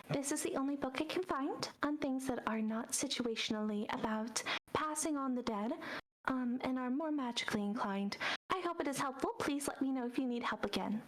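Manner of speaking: a courteous owl handing over the book. Acted. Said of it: "looks to both of you and goes".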